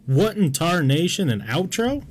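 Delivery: high hammed-up old prospector; lightly voiced old-timer exclaiming. Cowboy catchphrase at outro.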